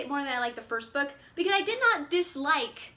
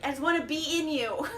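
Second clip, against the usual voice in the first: gushing confession; 3 semitones higher, 3 dB louder than usual. Real, not acted. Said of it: "some real feelings".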